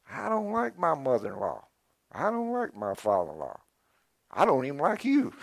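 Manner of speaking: sarcastic gripe, pitch swooping up and down; mock sarcastic put-down. Preacher imitating someone griping about in-laws, mock sarcastic. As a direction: play someone airing in-law grievances. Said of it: "If you're gonna be sarcastic".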